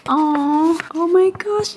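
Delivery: high, cooing aw; high coo of delight. Real, not acted. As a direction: melt at something adorable. Sees her character drawn.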